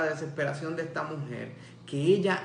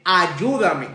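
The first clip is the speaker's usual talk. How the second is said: crying out; 6 dB louder than usual. Acted. Desperate mother begging Jesus.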